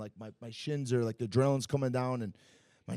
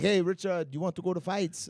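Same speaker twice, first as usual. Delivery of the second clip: higher-pitched imitation of a buddy inviting; friend's eager invitation; 5 semitones higher than usual. Thai friends invite the fighter out to fights, imitated higher.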